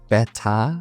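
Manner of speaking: "beta" for better, with a Geordie softened T; Geordie accent. Shown as a demonstration. Teacher demonstrating the T for learners, Geordie accent. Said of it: "T sound often gets split or softened".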